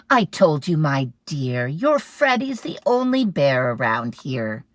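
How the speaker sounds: loud, patient mom voice; patient mother; reassuring mom. Acted. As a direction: soothe him, a little exasperated.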